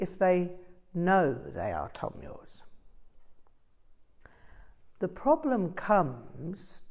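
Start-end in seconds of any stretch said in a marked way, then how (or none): 5.0-6.8 slow, weighty the problem comes; stressed with conviction. A narrator's reading. Rinpoche warns his students, slow and earnest. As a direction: lean on it with conviction. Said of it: "Rinpoche stressed with surprising conviction".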